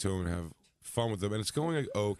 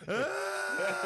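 mock scream; 13 semitones higher than usual. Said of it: "he just runs out wet screaming".

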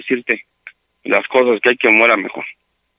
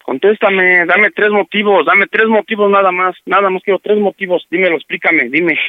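higher-pitched, pressing demand; insistent demand; 3 semitones higher than usual. Real, not acted. Man demands three reasons from his partner, insistent. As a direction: press hard for an answer.

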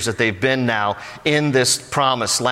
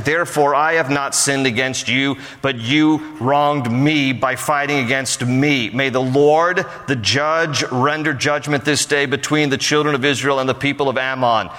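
formal reading of the quoted verse; solemn Bible reading; scripture reading. Acted. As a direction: read it as the text, measured and even. Reads Jephthah's closing words from text.

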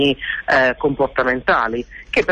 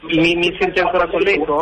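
echo on the line. Real, not acted. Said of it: "Sì, con molto eco".

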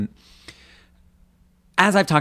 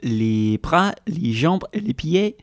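French accent; 3 semitones higher, slower than usual. Shown as a demonstration. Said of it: "do that in French".

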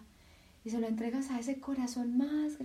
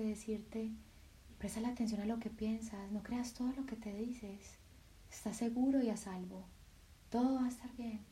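softer, tender voice of the heart; the heart speaking; 7 dB quieter than usual. Acted. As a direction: speak as a loving heart comforting. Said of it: "tu corazón simplemente te dice". (el corazón habla, suave y tierno)

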